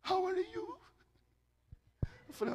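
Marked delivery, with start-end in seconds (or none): 0.1-0.8 high, soft put-on voice; dainty high-pitched mimicry; imitated foreign woman. Imitates woman approaching him in English.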